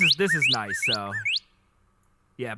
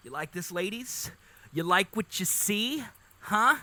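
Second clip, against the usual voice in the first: a hint of a swaggering bird showing off; lightly voiced bird flirting with the ladies; mild mock flirt; cocky courting bird; 3 semitones higher than usual. Voicing courting bird to lady birds.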